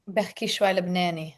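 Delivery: quick casual Lebanese Arabic; Lebanese Arabic accent. Real, not acted. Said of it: "do you speak any Arabic?".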